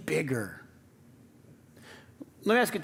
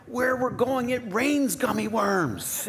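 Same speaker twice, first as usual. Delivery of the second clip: higher, slow, laughing through a grand promise; mock-grand promise; 7 semitones higher, slower than usual. Dad promises his kids gummy-worm rain, laughing, mock-grand. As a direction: sell it like a wonderland. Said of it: "you're like".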